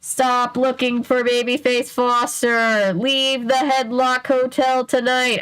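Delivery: slow, bored ghost voice; a lightly voiced eerie ghost, slow. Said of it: "spoke in an eerie, deep voice".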